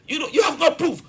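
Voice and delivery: sudden high shout at the critics. Real, not acted. Pundit shouting down critics who call the government wasteful, loud. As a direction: raise the voice, jabbing at critics. Heated rebuttal of critics on air.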